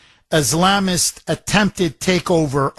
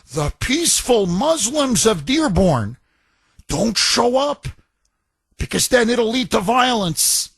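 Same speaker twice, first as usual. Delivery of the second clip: mocking police chief. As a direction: lightly parody a nervous chief begging residents. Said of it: "by saying".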